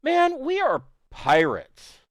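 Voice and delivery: high, slow, gleeful boast; Peter Vallis, laughing. Acted. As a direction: crow it with relish, drawn out. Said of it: "Peter Vallis is laughing".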